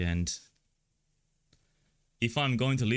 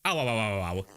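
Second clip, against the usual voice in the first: yelping at being pinched; short ows while someone pinches; real little yelps of pain; pained ow from pinching. Real, not acted. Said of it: "stop pinching me".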